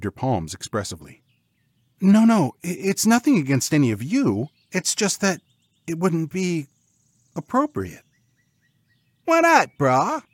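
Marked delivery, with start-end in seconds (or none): 2.0-8.0 high, hesitant backpedalling; awkward, pitched-up excuse; flustered reassurance. Acted. Regretful woman hurriedly softens rejection. 9.3-10.2 high, loud pig protest; squeaky indignant pig bros; questioning pigs. A narrator's reading. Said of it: "they asked all at once".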